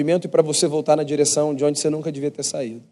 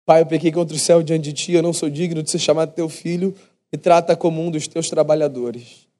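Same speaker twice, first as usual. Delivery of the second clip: rehearsed apology. Retold or imitated. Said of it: "pensando em entonações".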